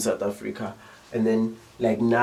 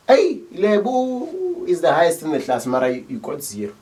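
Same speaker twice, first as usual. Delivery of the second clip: sarcastic teacher; 4 semitones higher than usual. Retold or imitated. Teacher mocking a pupil who got zero, sarcastic. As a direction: tease the pupil with fake praise.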